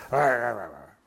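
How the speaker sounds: low growling "arr" noises for angry muttering; low mock growl of frustration; mock grumbling. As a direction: grumble like you just hung up on someone. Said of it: "had some choice words".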